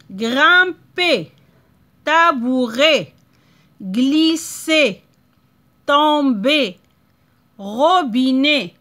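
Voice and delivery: each word separate, ending stressed and falling; word list read out. Shown as a demonstration. Teacher reading words to pupils: separated, falling endings. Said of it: "je vais lire les mots".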